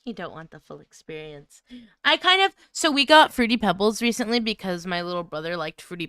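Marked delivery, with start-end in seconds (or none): none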